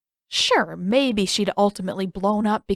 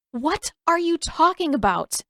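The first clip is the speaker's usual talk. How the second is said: put-on higher girl voice, defiant; glaring girl; 8 semitones higher than usual. A narrator's reading. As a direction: demand it with a glare. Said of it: "she glared at him".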